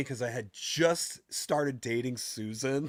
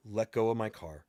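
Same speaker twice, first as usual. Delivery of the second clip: calm, even delivery; 2 semitones lower than usual. Retelling what he told a woman clinging to his car's wheel, retelling a calm command. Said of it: "I'm just calmly telling her".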